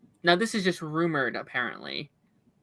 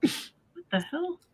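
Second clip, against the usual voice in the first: radio voice; 12 semitones higher, 5 dB quieter, slower than usual. Real, not acted. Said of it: "Now it's back to radio".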